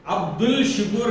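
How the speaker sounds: अब्दुल शुकूर with a clear L, as the mistake; अब्दुल शुकूर, L sounded; wrong reading. Shown as a demonstration. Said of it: "नहीं बोलेंगे".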